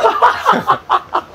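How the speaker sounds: airy high-pitched laugh; high breathless laugh. Real, not acted. Laughing at sign.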